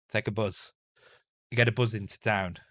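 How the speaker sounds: bus said buzz, with a short northern u. Shown as a demonstration. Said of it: "Or buzz".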